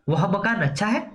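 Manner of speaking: "अच्छा है" with a rising, mildly amazed tune; exclamation of wonder. Shown as a demonstration. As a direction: show a touch of wonder by lifting "अच्छा है". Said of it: "विस्मय पैदा कर रहा है". ("अच्छा है" पर विस्मय से उठता सुर)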